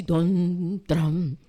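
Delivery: low imitated booming "tron"; imitated grand entrance. Preacher imitating the Messiah's entrance through the gate, low mock booms. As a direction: sound out a ponderous arrival, low. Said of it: "creen que va a entrar así".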